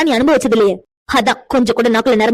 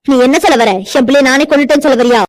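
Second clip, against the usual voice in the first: shocked anger; 4 dB louder than usual. Acted. Mother accused of killing son.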